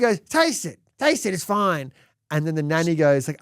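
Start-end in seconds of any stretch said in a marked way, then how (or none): 0.2-1.9 pushy mum. Retold or imitated. Mum pushing nanny to taste cream.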